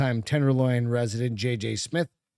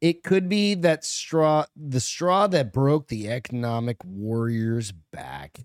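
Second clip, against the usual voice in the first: news read; 2 semitones lower, slower than usual. Acted. Reads article aloud.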